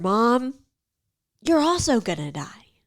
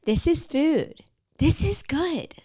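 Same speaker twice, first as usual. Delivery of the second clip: higher, unsure recited lines; robotic instruction; 8 semitones higher, slower than usual. Retold or imitated. Voicing the guy's inner instructions, unsure. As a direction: say it like a rule you don't believe. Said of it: "like he's been told".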